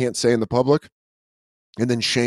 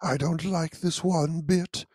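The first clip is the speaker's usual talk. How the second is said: soft, breathy little bear voice; lightly voiced gentle cartoon bear; Winnie the Pooh voice; 4 semitones higher, 4 dB quieter than usual. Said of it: "Winnie the Pooh was capable of blackmail".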